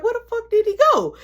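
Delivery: fast, high laughing panic; panicked laugh. Retold or imitated. Kid searching for brother, laughing in a fast panic.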